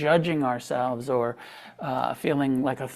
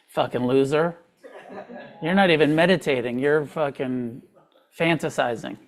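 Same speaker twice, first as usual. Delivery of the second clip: half-laughing imitation of a harsh critic; mock inner tyrant. Meditation teacher voicing her harsh inner critic, laughing. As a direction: sneer it at yourself, but laughing. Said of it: "Internal tyrant, critical voice".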